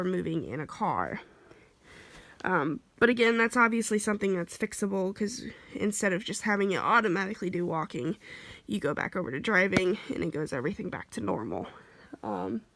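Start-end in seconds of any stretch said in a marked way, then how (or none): 2.4-12.6 short breaths between phrases; a little out of air; shallow breathing. Real, not acted. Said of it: "I'm so sorry for my, my breathing".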